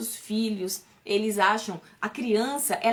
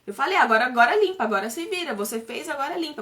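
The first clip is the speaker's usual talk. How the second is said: scolding. Retold or imitated. Mother imitating how she scolded her daughter for spilling something. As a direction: reenact nagging a child over a spill. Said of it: "Porque eu criticava muito".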